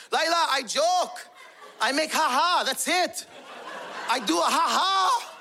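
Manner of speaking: high-pitched husband backpedalling in panic; shaken pleading. Retold or imitated. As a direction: explain yourself nervously, high and pleading. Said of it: "He got shook. It shook him".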